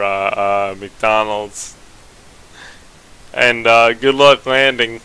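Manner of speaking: loud, breezy mock pilot announcement; a goofy captain telling passengers he's off to dinner; joking pilot voice. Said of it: "you never hear".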